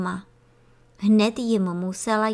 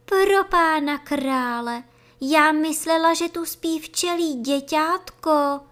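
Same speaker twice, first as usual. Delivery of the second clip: high, louder startled exclamation; frightened cry; 7 semitones higher, 5 dB louder than usual. A narrator's reading. Feeder bee shocked at her mistake. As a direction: gasp it out in a fright. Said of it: "vykřikla poděšeně roznašečka".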